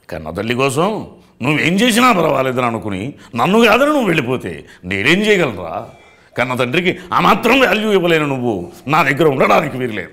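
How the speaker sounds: loud, high, full-blown dramatic film-actor voice; Jaggayya impression. Shown as a demonstration. Mimic playing a parent rebuking a son who leaves, loud melodramatic impression. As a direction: thunder it like an aggrieved screen father. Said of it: "అని జగ్గయ్య గారు".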